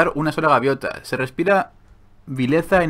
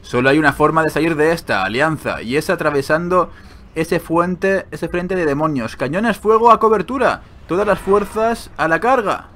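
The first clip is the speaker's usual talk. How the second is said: lightly voiced commander, rising toward the orders; battle commander reading; 3 semitones higher, 3 dB louder than usual. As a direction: build into a call to charge.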